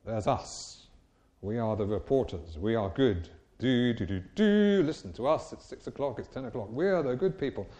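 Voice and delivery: a hint of a self-satisfied news anchor; mocking smug reporters. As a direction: sound pleased with yourself, lightly. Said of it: "They say there's two sorts of people".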